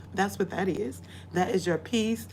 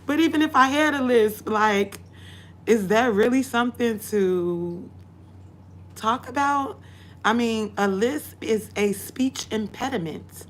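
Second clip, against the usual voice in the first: indignant; 3 semitones higher, 4 dB louder than usual. Real, not acted. Indignant about lisp mockery.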